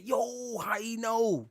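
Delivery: put-on a touch of a startled teen; lightly voiced kid caught out; imitating the kid. Kid whispering to his friend.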